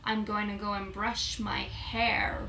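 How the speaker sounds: hammed-up American accent with sounded Rs; appalling American imitation. Shown as a demonstration. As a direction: do a bad American accent, leaning on the R. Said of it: "the appalling imitation of your accent".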